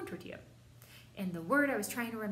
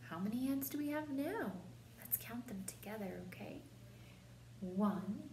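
kindergarten teacher voice; 5 semitones higher, 6 dB quieter than usual. Acted. Kindergarten teacher counting with class.

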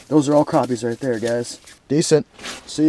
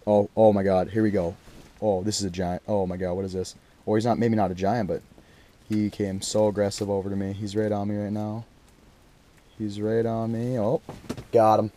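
much softer, low tense murmur; quiet and lower, watching closely; hushed; 4 semitones lower, 7 dB quieter than usual. Real, not acted. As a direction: keep it hushed so the fish stays. Fish approaching under the ice.

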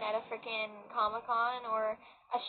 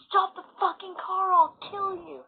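loud, higher mock yell of Miles; quoting Miles; 7 semitones higher, 6 dB louder than usual. Live streamer reenacting Miles's car threat, loud mock yell. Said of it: "he's like".

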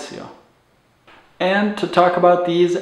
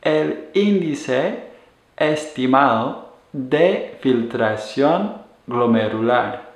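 el índice estimado de filtración glomerular, slow and careful; slow repeat. Shown as a demonstration. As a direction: spell the full term out slowly again. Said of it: "So again, that is".

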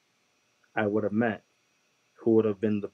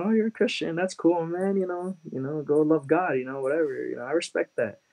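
much higher, overly friendly brush-off; friendly mock tone; 7 semitones higher than usual. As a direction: sound casually upbeat, humouring him. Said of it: "I start smiling at him".

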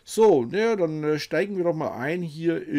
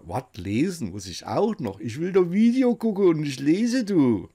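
whiny viewer; 4 semitones higher, 3 dB louder than usual. Acted. Plays whiny viewer who won't read.

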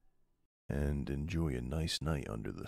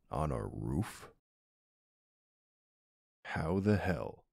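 higher-pitched, astonished outburst; amazed disbelief; 4 semitones higher than usual. Acted. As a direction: react in stunned delight to a surprise. Discovers surprise garden on roof.

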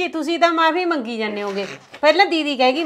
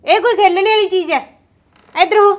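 sharp, raised scolding at a pestering brother; angry scolding; 4 semitones higher than usual. Acted. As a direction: yell at him to stop. Sister scolds brother breaking gate. (ਗੁੱਸੇ ਨਾਲ ਉੱਚੀ ਝਿੜਕ)

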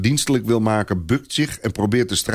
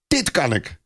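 shout; 7 semitones higher than usual. A narrator's reading. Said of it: "schreeuwt hij".

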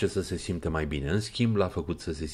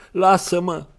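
loud, higher anguished cry; heartrending cry; 11 semitones higher, 9 dB louder, slower than usual. Acted. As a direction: cry out in torment. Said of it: "strigă el cu un glas sfâșietor". (strigăt sfâșietor, tare și mai sus)

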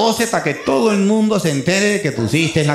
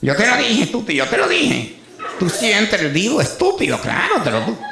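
higher, nagging scolding voice; wife's mock scolding; 5 semitones higher than usual. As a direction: nag him like an annoyed wife. Wife scolds husband in car.

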